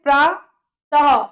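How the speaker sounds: प्रातः slowly, with a final breath of h; breathy h ending. Shown as a demonstration. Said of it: "ह की ध्वनि आ रही है".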